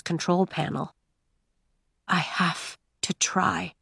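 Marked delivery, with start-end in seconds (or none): 2.1-3.7 soft, slow whisper. A narrator's reading. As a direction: whisper it urgently. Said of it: "he whispered".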